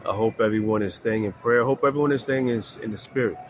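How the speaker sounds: stuffy, congested voice; blocked nose. Real, not acted. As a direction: talk through a blocked nose. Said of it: "I'm a little congested".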